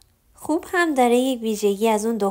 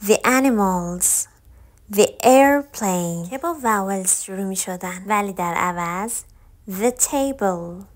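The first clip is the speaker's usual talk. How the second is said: very slow, each word set apart; slow listen-and-repeat demo; slow model words; much slower than usual. Shown as a demonstration. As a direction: read the list slowly for learners. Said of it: "به من گوش بدین".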